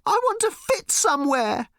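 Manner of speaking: put-on high, loud girl's scream; a furious daughter shrieking at her mother; shouting teenage girl. A narrator's reading. Random keeps shouting at mother.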